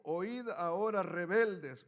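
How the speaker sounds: loud, scolding rebuke of the people; angry Moses. Acted. Moses scolding the rebellious people, loud and angry. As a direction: rebuke them like a fed-up leader. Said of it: "Moisés está enojado".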